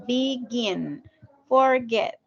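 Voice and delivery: "Begin" and "forget" in two separate syllables; split into syllables. Shown as a demonstration. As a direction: say "Begin" as be-gin, "forget" as for-get. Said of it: "se puede separar".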